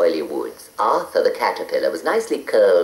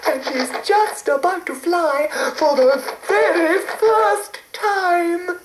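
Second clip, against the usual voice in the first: cooing. A narrator's reading. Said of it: "cooed Mavis".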